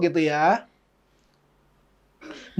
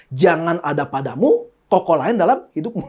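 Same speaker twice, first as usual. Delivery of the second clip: mock scripture quote; 3 semitones lower than usual. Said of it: "firman Tuhan berkata apa".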